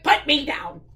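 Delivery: emphatic rabbit protest; mild indignant shout. Acted. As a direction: order it as an affronted rabbit. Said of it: "shouted the rabbit".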